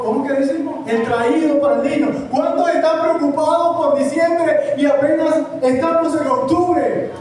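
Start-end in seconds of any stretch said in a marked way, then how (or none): 2.3-7.1 projected, insistent sermon delivery; preaching. Acted. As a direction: preach it out to the congregation. (prédica enérgica)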